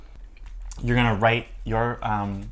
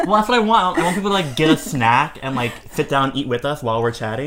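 excited; 6 semitones higher, 8 dB louder than usual. Real, not acted. Excitedly explaining her goal.

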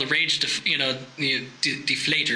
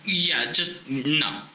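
lightly put-on German accent; hesitant mock-German advice. German guy pointing out a problem, mock German accent. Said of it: "I've met Germans".

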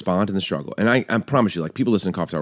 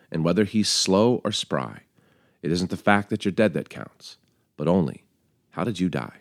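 measured, low, earnest reading of verse; heartfelt poem reading; poem recital; 3 semitones lower than usual. Acted. Reads a poem aloud.

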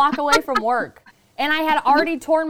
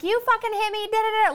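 mock angry; 9 semitones higher than usual. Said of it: "don't wanna go back to her and be like".

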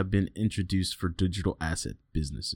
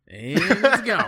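mock banker deadpan, slow and higher; a hammed-up South Park meme line; 10 semitones higher, 4 dB louder, much slower than usual. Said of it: "South Park meme".

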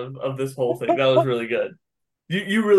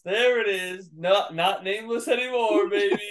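gleeful teasing; 5 semitones higher than usual. Real, not acted. Gloating over the slipped name.

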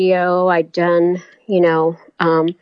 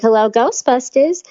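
higher-pitched New York accent; thick New York voice, pitched up; 5 semitones higher than usual. Shown as a demonstration. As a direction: put on a New York accent for an audition line. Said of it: "could you do a New York accent".

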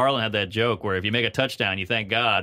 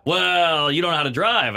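louder, higher put-on pushback; mock objection; 5 semitones higher, 5 dB louder than usual. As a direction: object like a smug know-it-all. Mocking quote of other drivers.

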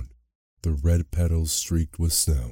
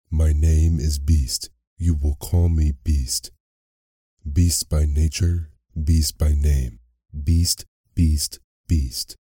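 forceful, slightly louder, emphatic beast; roaring beast; 4 dB louder than usual. A narrator's reading. Beast tells the flatterer what to call him, roaring mildly. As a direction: hammer home the name with a restrained roar. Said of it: "roared the creature".

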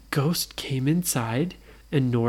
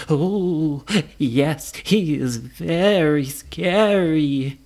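spooked ghost; much slower than usual. Acted. Ghost fearful of Frankenstein.

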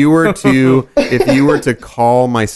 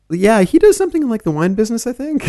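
mock parent voice; 13 semitones higher than usual. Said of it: "they're just like".

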